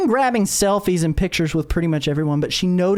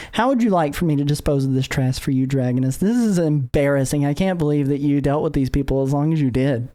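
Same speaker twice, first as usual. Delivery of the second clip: lower, cool, dismissive offer; cold menacing heroine; 4 semitones lower than usual. Acted. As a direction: talk down about the trash, coolly. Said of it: "And she goes".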